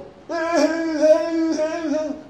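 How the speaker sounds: long high loud mock wail. Preacher imitating Hagar crying, loud mock wail. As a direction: wail like a weeping Hagar, hammed up.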